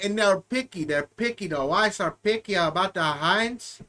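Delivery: lightly put-on Hispanic accent as Carlos; a hint of a Hispanic accent; mock Hispanic accent. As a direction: play a bad Hispanic character, lightly. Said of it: "bad Hispanic".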